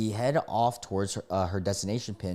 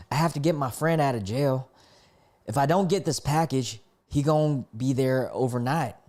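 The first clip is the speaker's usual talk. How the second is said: put-on country-accented woman, a bit higher; North Carolina accent; 4 semitones higher than usual. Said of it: "That's my North Carolina accent for y'all".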